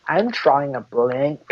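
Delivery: slow catchphrase. Acted. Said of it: "You have to be like".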